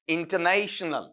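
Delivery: इंटरनेशनल slowly and evenly, parts joined up; measured, careful इंटरनेशनल; pronunciation demo. Shown as a demonstration. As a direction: model इंटरनेशनल slowly for learners. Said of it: "लंबा word आपका टूटकर यहां निकला".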